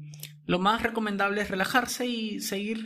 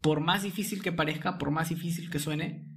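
right in your ear; 2 semitones lower than usual. Acted. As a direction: soothe a frightened sleeper back to sleep. Guides a listener in paralysis. (al oído, calmado y lento)

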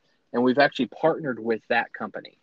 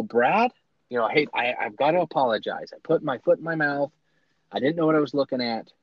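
excited apology; 3 semitones higher than usual. Retold or imitated. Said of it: "panicked and excited".

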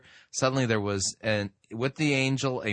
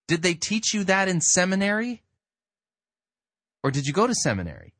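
indignant challenge; 3 semitones higher than usual. Real, not acted. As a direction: call him out on the Greek. Challenging the preacher Chris.

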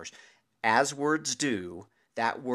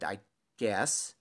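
reluctant, halting consent; hesitant. Retold or imitated. Friend bracing for an honest opinion, hesitant. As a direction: agree warily, holding back a little. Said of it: "hesitantly, I said".

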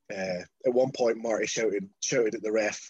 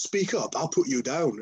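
higher-pitched indignant comeback; play-acted affronted retort; imitated threat; 3 semitones higher than usual. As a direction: fire back a mock threat. Marty's retort in acted quarrel.

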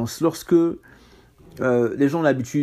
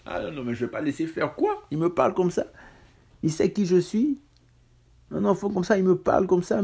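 mock indignant self; 6 semitones higher than usual. Mock proud angry self.

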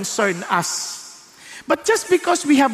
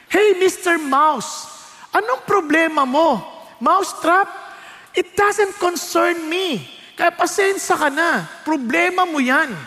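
higher voice, unbothered and brushing him off; dismissive chicken; 5 semitones higher than usual. Acted. The chicken telling the mouse it is not her problem, dismissive. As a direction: shrug him away like a busy hen.

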